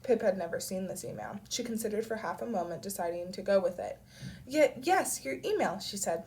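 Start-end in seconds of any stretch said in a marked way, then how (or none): 4.5-5.8 higher, louder stumbling yes; hesitant bluff. A narrator's reading. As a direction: play along with a slight stammer. Bluffing about an unseen email.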